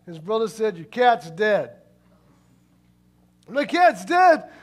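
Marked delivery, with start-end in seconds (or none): 0.8-1.7 mock-callous, matter-of-fact announcement; blunt. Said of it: "That was really mean the way you just told me". 3.5-4.5 loud, high, drawn-out disbelief; hammed-up shocked question, stretched out slowly. Cat owner hears shocking news.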